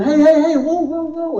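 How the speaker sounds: high, loud burst of heys and whoas; acted-out flustered interruption; urgent intervening. Acting out man rushing to stop tears.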